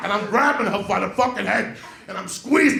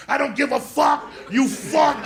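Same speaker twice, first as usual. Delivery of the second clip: higher-pitched mock fury; retold angry outburst; 5 semitones higher than usual. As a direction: hurl the curse as in a fight. Acted fight with the nun.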